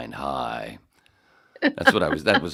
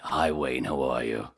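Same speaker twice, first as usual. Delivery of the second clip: flat monotone mom; 4 semitones lower than usual. Retold or imitated. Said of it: "this is how she talked".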